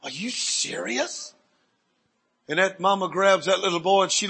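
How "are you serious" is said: hushed, very slow, swooping up at the end; incredulous question. Retold or imitated. Preacher as the boy is healed, hushed disbelief. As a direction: stretch it out in soft disbelief.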